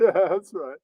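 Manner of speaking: lightly voiced radio host; imitating the host. Imagined radio host Brian Craig asking, lightly voiced. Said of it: "Brian Craig would have been like".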